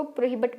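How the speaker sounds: "प्रोहिबिट" with a schwa in the last syllable, -bət; Indian English pronunciation. Shown as a demonstration. Teacher explaining the Indian English form, "प्रोहिबिट" ending in -but. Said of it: "Indian English pronunciation में".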